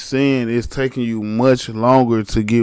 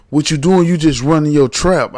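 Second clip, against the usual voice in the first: louder, firm cop voice; mock cop; 3 semitones higher, 5 dB louder than usual. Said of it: "cop voice in retold story".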